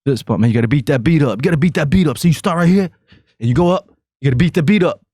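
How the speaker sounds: high-pitched, hyped-up Guido impression; Jersey Shore guy. Host mimicking Jersey Shore partiers, hyped Guido voice.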